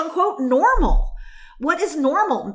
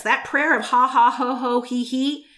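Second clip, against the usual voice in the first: prayer of laughter. Shown as a demonstration. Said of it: "let me say this".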